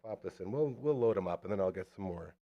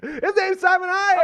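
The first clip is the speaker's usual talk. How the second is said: big high announcer call; booming announcer; 7 dB louder than usual. Acted. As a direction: announce the name like a host. Announcing guest name.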